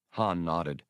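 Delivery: plain reading voice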